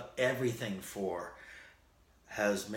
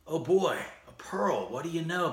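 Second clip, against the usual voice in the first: high, loud cheerful rabbit voice; Bugs Bunny; 7 semitones higher, 4 dB louder than usual. Retold or imitated. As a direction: exclaim with delighted surprise. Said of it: "Bugs Bunny says".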